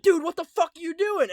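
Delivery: high, loud indignant mock scolding; retold reprimand. Family reprimanding cop who hit the kid, outraged. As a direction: tell him off in outraged disbelief, imitated. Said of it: "we fucking reprimanded the cop".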